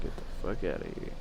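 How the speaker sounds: whispering. Real, not acted. Muttering at game figure.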